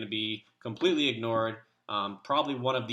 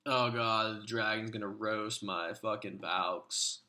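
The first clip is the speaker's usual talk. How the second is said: lightly voiced gamer friend cursing and groaning through his attack; Cursed Dude impersonation. Friend on voice chat reacting live to his own attack, a mild hammed-up impression. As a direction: play a stressed player narrating his own raid live. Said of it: "I'm gonna start pretending that I'm Cursed Dude".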